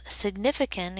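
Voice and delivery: "significant" said with firm emphasis; stressed key word. Real, not acted. Teacher warning students what can go wrong, stressing "significant". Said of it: "I want to stress the word significant".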